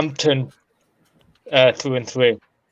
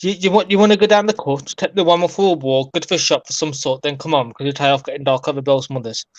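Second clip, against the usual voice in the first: Black Country accent. Shown as a demonstration. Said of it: "I always say this statement when I speak about my accent".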